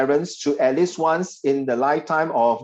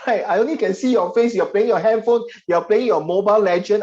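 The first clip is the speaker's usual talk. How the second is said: higher, louder playful teasing; mock accusation, raised and bright; 5 semitones higher, 3 dB louder than usual. Real, not acted. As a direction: catch them out, laughing. Teasing students about phones.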